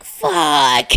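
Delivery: loud, low drawn-out mock curse; retold exasperated curse. Host retelling her reaction to another pronunciation, exasperated curse. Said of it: "And I was like".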